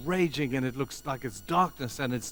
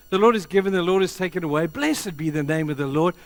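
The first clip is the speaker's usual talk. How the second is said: loud, raised preacher's quote; impassioned declaration; 5 semitones higher, 7 dB louder than usual. Retold or imitated. Job answering his accusers, impassioned loud declaration. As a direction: proclaim it high and forcefully. Job's defiant declaration of faith.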